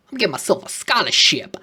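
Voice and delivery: conspiratorial whisper to himself; whispered aside. Real, not acted. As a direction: whisper it like a sly little secret. Sneaky aside about scholarship.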